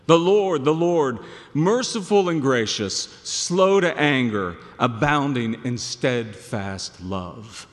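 loud, grand proclamation, then easing to slow; proclaiming God's name. Acted. Preacher proclaiming God's name to Moses, grand and loud. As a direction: announce the Lord's name with awe.

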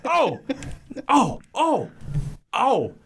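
high, wailing cries of panic; hysterical Ernest. Acted. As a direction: yelp like a cornered man. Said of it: "read for Ernest".

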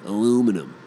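ALUMINUM as a-LOO-mi-num; Aluminum in four syllables, Yank style; American pronunciation. Shown as a demonstration. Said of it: "They'll say aluminum".

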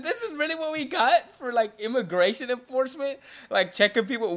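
loud, high-pitched disbelief; incredulous rant. Retold or imitated. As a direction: protest it as if you can't believe it. Retold disbelief at weak enforcement.

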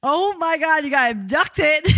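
high, laughing disbelief; cracking up. Real, not acted. Friend reacting to abduction by swingers, helplessly laughing and squealing. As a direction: burst out laughing, ending in a drawn-out squeal.

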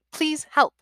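put-on high frail old man pleading; frail breathless old person. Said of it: "the frail voice".

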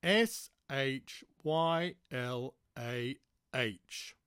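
slow and patient spelling; patiently. Acted. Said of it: "she said patiently".

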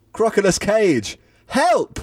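hammed-up cry for his pet, voice leaping up; wailing for help. Nicolas Cage calling his missing crocodile, a mock high wail. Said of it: "he wailed".

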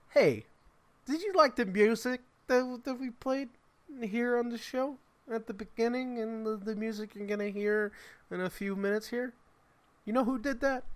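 high, bright promo host voice; radio host voice. Pretend. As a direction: pitch it up like a radio ad. Plugging the band, radio host mode.

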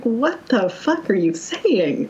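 slow drawn-out disbelief; baffled, slow. Retold or imitated. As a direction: spell out each word, stunned. Retelling her baffled reaction.

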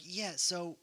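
a mild hammed-up panic, pressing Ross for answers; mock freak-out. Soldier pressing General Ross for answers, in a mock freak-out. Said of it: "he was freaking out over it".

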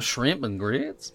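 slow, drawn-out Southern drawl; mock Southern accent. Echoing co-host's food talk, mock Southern drawl. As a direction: stretch the vowels in a teasing Southern twang.

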